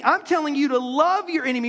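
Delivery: forceful, shouted command; emphatic declaration. Retold or imitated. Jesus pressing the crowd, shouted. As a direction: proclaim it over the crowd.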